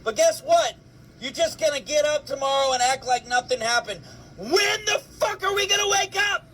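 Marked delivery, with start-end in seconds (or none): 4.4-6.4 high, shouted demand; exasperated outcry. Real, not acted. Fed-up ranter demands the country wake up, exasperated shout. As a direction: cry it out in angry disbelief. Angry political rant.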